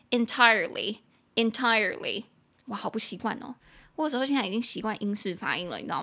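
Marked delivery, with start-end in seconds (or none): 0.1-2.2 "entirely" in American English, with a sounded R; American pronunciation. Shown as a demonstration. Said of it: "我念一下美式的是".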